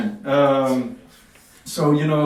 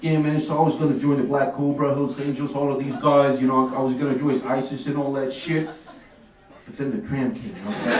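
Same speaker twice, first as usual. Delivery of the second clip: put-on New York Italian teen; 3 semitones lower than usual. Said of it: "He's like".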